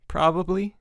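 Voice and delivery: rising doubtful question; incredulous echo. Acted. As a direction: question the word in disbelief. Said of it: "asked Mike".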